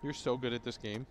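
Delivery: softly delivered sarcastic compliment; deadpan sarcasm. Real, not acted. Co-caster fake-praising partner's ward spots, deadpan sarcasm. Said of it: "I was being incredibly sarcastic".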